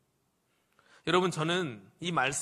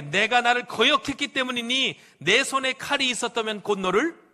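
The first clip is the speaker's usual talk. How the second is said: raised, declaiming indignation; mildly acted anger; 4 semitones higher, 4 dB louder than usual. Balaam threatening his disobedient donkey, raised mock anger. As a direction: scold with a touch of scriptural wrath. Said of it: "화를 내고 있습니다".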